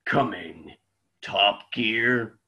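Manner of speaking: deep dramatic trailer announcer; movie trailer voice. Pretend.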